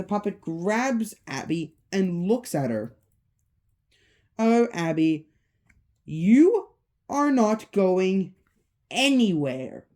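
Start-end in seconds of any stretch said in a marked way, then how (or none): 4.4-9.9 slow, drawn-out taunt; mild menace. Acted. Puppet holds Abby captive, lightly menacing drawl. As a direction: stretch the threat out word by word. Puppet threatens the grabbed girl.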